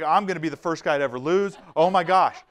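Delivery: fast, panicky mock fear; mock scared. Trainer imitating scared Kelly before the drill, fast mock panic. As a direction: rush it like a nervous guy imagining failure. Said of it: "Kelly is scared to death".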